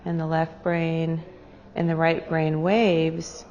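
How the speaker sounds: unhurried meditation guide with long pauses; guided meditation. Real, not acted. Meditation leader guiding a group to their breath, calm and unhurried. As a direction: lead them gently inward, pausing between phrases.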